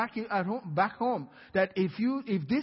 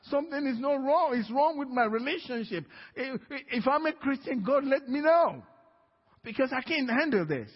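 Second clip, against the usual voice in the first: raised, high-pitched retold plea; crying out to God; 6 semitones higher than usual. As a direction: cry out in frustration, reenacting a desperate prayer. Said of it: "I kept crying out to God".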